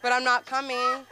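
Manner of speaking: laughing. Real, not acted. Laughing punchline.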